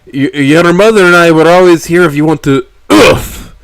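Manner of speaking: loud, emotional dad; fatherly plea cut off; warm father voice. A narrator's reading. Father voice, hug cuts off.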